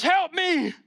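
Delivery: high, stretched wail of a Grinch; Grinch crying out. Retold or imitated. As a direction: squeal it out like the Grinch overwhelmed. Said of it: "He goes".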